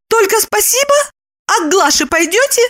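high, demanding woman's voice; Lipochka, cross. A narrator's reading. Lipochka presses Roman about Glasha. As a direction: challenge him sharply. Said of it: "спросила".

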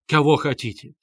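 furious cry at the accusers; shouting. Acted. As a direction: shout it in defiance. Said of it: "кричала Катерина Ивановна".

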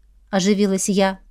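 plain reading voice

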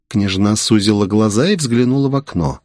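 ordinary delivery, nothing marked

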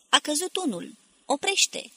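excited high-pitched shout, acted in narration; urgent shouting. A narrator's reading. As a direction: call out orders urgently, building to a shout. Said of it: "strigă Barca".

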